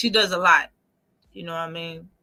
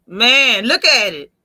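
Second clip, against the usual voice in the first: amazed; 9 dB louder, slower than usual. Real, not acted. Loud, amazed look at the photo.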